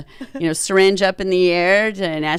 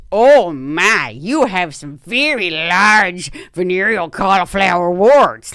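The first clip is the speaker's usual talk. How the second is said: lightly mocked doctor, drawing out the findings; blunt doctor impression; 5 dB louder, slower than usual. Doctor examining patient on the table, mock pronouncement. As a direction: imitate a doctor announcing what she sees. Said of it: "she goes ... like that".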